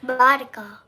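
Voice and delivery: Baraka said through a giggle; laughing. Real, not acted. Daughter repeats the word while still giggling at mom.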